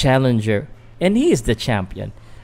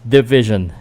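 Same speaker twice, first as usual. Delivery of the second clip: practising introducing the blue corner fighter; mock ring announcer. Vlogger practising the fighter introduction as a light ring announcer. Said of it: "trying to practice".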